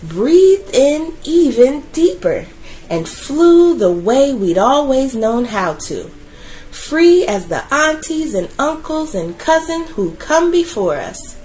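put-on gentle storytelling voice for children; story narration. A narrator's reading. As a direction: read it like a bedtime picture book. Reads a picture book aloud.

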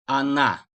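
"Ana" for она: first a short, second a long and stressed; o read as a. Shown as a demonstration. Teacher showing unstressed o read as a. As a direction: say "Ana" as a-NAA. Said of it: "O'yu A olarak okuduk".

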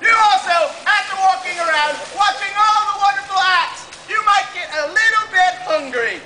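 booming showman announcement; carnival barker. Acted. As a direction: sell it to the crowd.

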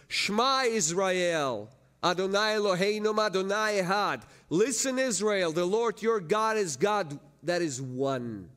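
scripture proclamation. Real, not acted. Preacher declares the Shema to congregation, ringing proclamation. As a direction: proclaim it like a call to all Israel.

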